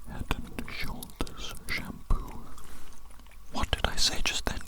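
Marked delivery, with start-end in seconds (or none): 0.1-2.4 slow whisper, drawn out right by the ear; close whisper. Shown as a demonstration. Examiner whispers test phrase into ear, slow close whisper. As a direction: breathe each word slowly into the ear. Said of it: "I'm going to whisper some words into your ears very closely, very quietly".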